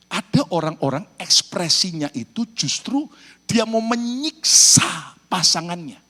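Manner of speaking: ordinary talk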